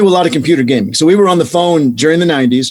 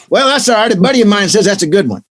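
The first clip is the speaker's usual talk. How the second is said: cheerful Texan client, pitched up; mock Texan caller; dumb Texan accent; 4 semitones higher, faster than usual. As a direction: order it like a clueless Texan. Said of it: "a dumb Texan accent".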